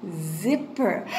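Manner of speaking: "Zipper" low, with a long Z; careful sounding-out. Shown as a demonstration. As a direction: model "Zipper" clearly for repeating. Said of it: "Repeat with me".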